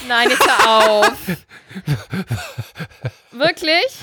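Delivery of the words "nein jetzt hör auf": laughing protest; giggling no. Real, not acted.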